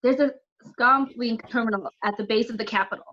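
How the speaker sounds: high, loud battle instructions; urgent orders. Acted. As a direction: call out orders under pressure. Urgent battle orders over the noise.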